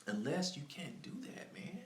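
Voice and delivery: whispered aside, unvoiced; half-whispered warning. Real, not acted. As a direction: drop to a breath.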